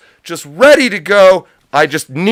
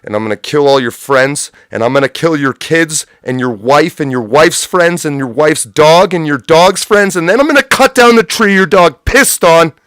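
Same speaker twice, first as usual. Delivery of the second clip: Clint Eastwood threat; 3 dB louder than usual. Retold or imitated. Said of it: "I'm like Clint Eastwood at the end of Unforgiven".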